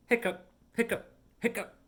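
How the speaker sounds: high, quick hiccupping; hiccup sounds. Acted. Kitty Pete still hiccupping after the song, playful high hiccups.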